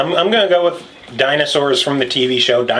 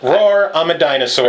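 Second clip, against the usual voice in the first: pirate accent; 4 semitones higher than usual. Shown as a demonstration. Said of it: "Are you a pirate".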